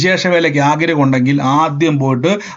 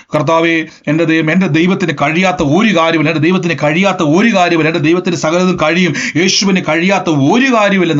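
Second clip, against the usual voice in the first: confession demo. Shown as a demonstration. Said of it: "പത്ത് പ്രാവശ്യം പറയണം".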